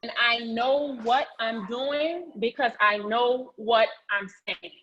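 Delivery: slow, deliberate affirmation for the group to repeat; slow spoken affirmation. Shown as a demonstration. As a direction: lay it out slowly so they can echo it. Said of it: "I want you to repeat after me".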